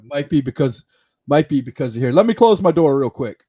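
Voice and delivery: glitchy robotic call audio; choppy, buzzy connection. Real, not acted. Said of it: "it sounds like a robot".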